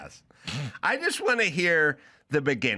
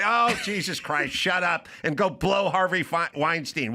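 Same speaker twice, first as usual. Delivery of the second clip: acted exasperation; 2 semitones higher than usual. Politician cutting off his wife, acted exasperation. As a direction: cut her off in mock exasperation.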